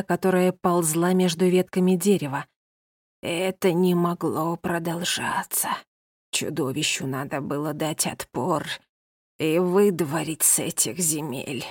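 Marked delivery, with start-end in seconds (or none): 3.2-11.6 put-on old woman in trance. Old woman continues legend.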